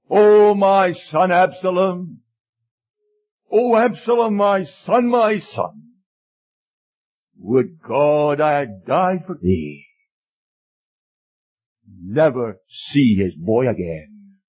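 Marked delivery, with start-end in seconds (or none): 0.1-5.9 acted wailing. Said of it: "And he wailed". 7.4-9.9 slow lament of a bereaved father; acted grieving lament. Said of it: "And he wailed".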